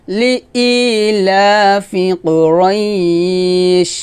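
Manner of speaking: slow tuneful recitation drawing out each word; Quran recitation. Shown as a demonstration. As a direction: chant it slowly with a long held vowel. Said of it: "আবার".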